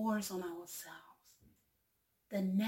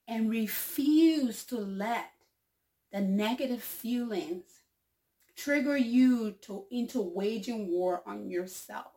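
slow, louder reading of the closing line; earnest quote reading; 3 semitones higher, 6 dB louder than usual. Acted. Reading the quote's closing advice to viewers, slow and earnest. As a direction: read it out slowly with weight.

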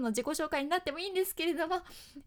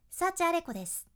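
ending of です not dropped too far; softer ending; 4 semitones higher, 4 dB louder than usual. Shown as a demonstration. Teacher demos a softened, not over-lowered ending. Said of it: "語尾の音を下げすぎないバージョン".

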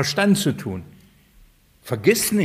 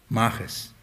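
mach es, low and quiet, falling; quiet firm order; low command; 5 semitones lower, 6 dB quieter than usual. Shown as a demonstration. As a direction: drop the voice on Mach es like a stern order. Repeated command, two takes.

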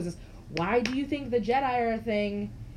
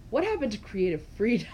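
laughing; faster than usual. Real, not acted. Echoes partner, laughing loudly.

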